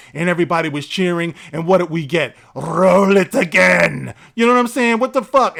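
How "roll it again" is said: slow, drawn-out mock voice; deadpan it slowly. Mocking the disappointing result.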